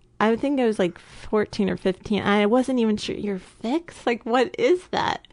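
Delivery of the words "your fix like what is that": mock disgusted tone. Retelling what someone said about them: imitating a disgusted tone. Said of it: "said with such disgust".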